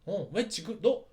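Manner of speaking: high, needling teasing voice; mocking taunt. Knight Gundam taunting the demon lord, mocking high taunt. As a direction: poke at him to provoke. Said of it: "도발을 하는 거예요".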